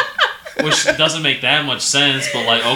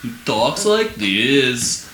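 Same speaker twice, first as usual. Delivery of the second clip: goofy YouTube voice; much slower than usual. Retold or imitated. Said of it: "goofy YouTube guy".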